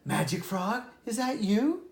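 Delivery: lively read-aloud storytelling voice; storybook narrator giving each animal a voice; story narration. A narrator's reading. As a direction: read it like a bedtime fable. Reads a fable aloud.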